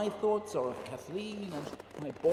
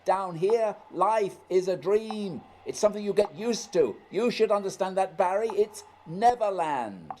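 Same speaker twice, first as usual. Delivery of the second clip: louder, higher, commanding; raised lecturing voice; 3 semitones higher, 7 dB louder than usual. Acted. Scott lecturing Barry about dreams, loud and commanding. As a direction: lecture over the blizzard.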